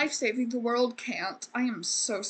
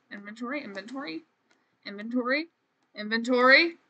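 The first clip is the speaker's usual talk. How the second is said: growing impatience; faster than usual. Real, not acted. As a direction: nag the game, each repeat more insistent. Repeats it impatiently at the game.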